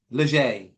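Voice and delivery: "Lejeune" said as luh-ZHAY; alternative name pronunciation. Shown as a demonstration. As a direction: try "Lejeune" ending in ay, final n dropped. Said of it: "could be".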